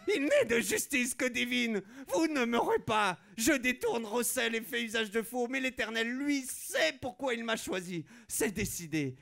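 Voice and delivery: hammed-up divine mission; fanatic zealot. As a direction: proclaim like a chosen one. Deluded zealot declaring herself.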